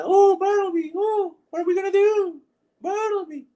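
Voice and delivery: very high, exaggerated flamboyant Frenchman; flamboyant French character. Streamer quoting a video game character, flamboyant falsetto. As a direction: put on a squeaky, theatrical Dubois wail. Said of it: "flamboyant gay character".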